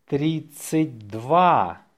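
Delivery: slow, stretched-out dictation. Shown as a demonstration. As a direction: draw the number out for learners. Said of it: "say it slowly".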